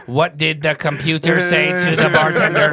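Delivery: slow stiff robotic joke reading. Retold or imitated. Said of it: "read it like a robot".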